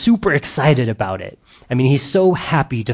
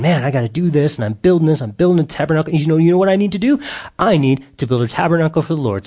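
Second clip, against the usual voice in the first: rushed, higher, eager voice for David; David hurrying to get everything done; excited David; 4 semitones higher, faster than usual. Retold or imitated. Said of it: "he's all excited about it".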